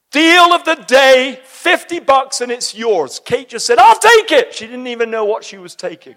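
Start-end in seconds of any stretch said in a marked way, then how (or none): 0.1-3.2 loud, slow sales call; retelling the shop lady calling out loud; shop lady yelling. Retold or imitated. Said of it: "Yelling out really loudly". 3.8-4.5 high, loud, eager blurt; eager grab. Retold or imitated. Kate grabbing the deal.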